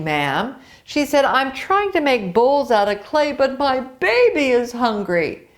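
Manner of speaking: lively storybook read-aloud with character voices; reading to children. A narrator's reading. Teacher reading a folktale to young pupils, lively. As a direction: tell the tale brightly to a class.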